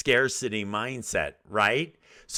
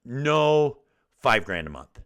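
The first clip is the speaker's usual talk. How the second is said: firm raised no; 3 semitones higher, 5 dB louder than usual. Retold or imitated. Wife overruling her husband's pricing, a firm loud no.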